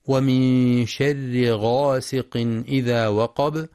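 slow recitation with drawn-out vowels; careful verse reading; Quran recitation. Shown as a demonstration. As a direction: recite with measured tajweed elongations. Teacher recites the verse under discussion.

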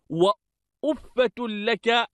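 وأفة as "uffatun", opening u and added t; damma with added ha. Shown as a demonstration. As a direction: say وأفة لك slowly as "wa-uffatun laka". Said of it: "بضم الألف".

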